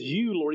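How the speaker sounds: "You" singled out with emphasis; stress on You. Shown as a demonstration. Preacher points out who is addressed, stress on "You". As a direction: lean firmly on "You". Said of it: "Notice here that, that it's, he says".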